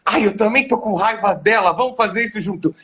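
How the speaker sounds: voz mais aguda, entrando na raiva dela; solidária na raiva. Retold or imitated. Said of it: "E eu fiquei assim". (solidário na raiva, em tom mais agudo)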